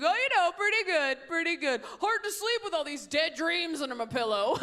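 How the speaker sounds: a dinner guest answering too cheerfully; mock cheerful Bill. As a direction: play it chipper over the sadness.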